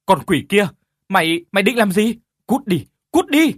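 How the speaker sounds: loud, high enraged yell at a demon; furious shout. Acted. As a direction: drive the demon away in fury. (quát giận dữ)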